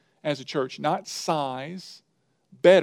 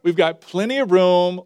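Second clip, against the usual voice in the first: wife calling; 2 semitones higher, 7 dB louder than usual. Acted. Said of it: "Mister Frog's wife says".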